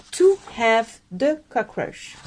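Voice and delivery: slow, put-on English accent on a wrong literal phrase; mock English accent. Shown as a demonstration. Teacher to members, slow mock English accent. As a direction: sound it out like a Brit, slowly. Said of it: "s'armer de son plus bel accent anglais".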